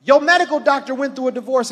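preacher punching the first example; rising preach. Real, not acted. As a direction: build the contrast with force. Preacher building emphatic contrast.

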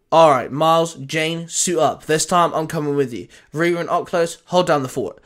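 firm commands to the team; ordering the team. Acted. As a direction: bark out orders like a leader. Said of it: "Sam ordered".

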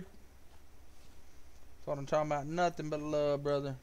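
slow, soft whisper; slow pleased whisper. Real, not acted. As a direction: breathe it out, pleased. Celebrating a donation on stream.

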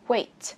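"Weight" ending in a clear T; final T released. Shown as a demonstration. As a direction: pop the T on "Weight". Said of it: "Bật chữ T này ra".

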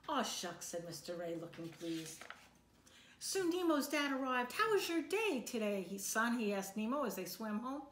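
lively storybook read-aloud for a class; reading to children. A narrator's reading. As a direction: read it like a picture book to kids. Teacher reads picture book aloud.

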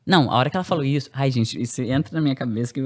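ordinary talk, nothing marked

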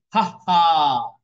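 loud ha ha laugh; fox's laugh. Retold or imitated. Teacher voicing the sly fox laughing at the crow. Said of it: "laughed the fox".

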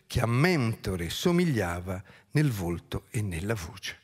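dramatic verse recital, surging and settling; theatrical poetry reading with stretched phrase endings; declaimed epic narration. A narrator's reading. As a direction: declaim the battle as ancient epic. Reads epic battle finale aloud.

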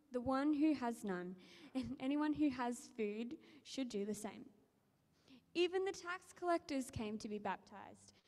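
measured, earnest reading of the Gospel; scripture reading. Acted. Reader reads Luke to the congregation, steady scripture reading. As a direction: read the passage to the congregation. Bible reading aloud in church.

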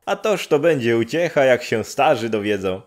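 high, loud and quick with joy; bubbling over, ready to run; excited village woman. Acted. Neighbour woman eager to fetch his parents, excited and high.

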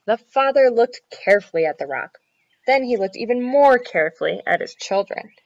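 put-on measured storytelling for children; story narration. A narrator's reading. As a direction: read it out clearly like a picture book. Reads a children's story aloud.

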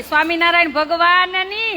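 leading a loud devotional chant; loud call. Real, not acted. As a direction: call out for the group to answer. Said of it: "ચાલો, જોશથી".

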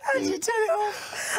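talking through a mouthful; mouth full. Real, not acted. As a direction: say it round a bite of beef. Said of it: "I've still got a mouthful of beef".

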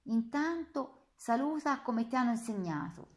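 an SS lieutenant crushing a prisoner; menacing officer. Acted. (minaccia autoritaria a voce alta)

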